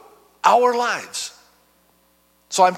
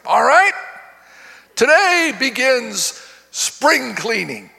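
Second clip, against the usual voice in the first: drill sergeant; 5 semitones higher than usual. Retold or imitated. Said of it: "like a drill sergeant".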